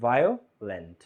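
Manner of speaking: ভায়োলেন্ট broken in two, ভায়ো, pause, লেন্ট; split into syllables. Shown as a demonstration. Teacher showing students how the word breaks, ভায়োলেন্ট split in two. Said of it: "উচ্চারণ করতে কয়ভাবে ভাঙা যায়".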